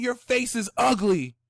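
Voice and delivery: squeaky high rude snap, "Fuck you, bitch"; mock rude insult. A Mars in Aries sign telling someone off, high mock snap. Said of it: "instead of, like, saying".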